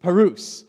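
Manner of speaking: parus said as PAH-roos, stress on first syllable; Greek word parus. Shown as a demonstration. Pastor teaching how to say parus. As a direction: pronounce parus clearly for the class. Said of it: "Let me hear you say parus".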